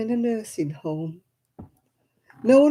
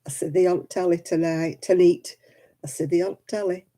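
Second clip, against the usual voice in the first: Oldham dialect. Shown as a demonstration. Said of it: "And if you say, you say".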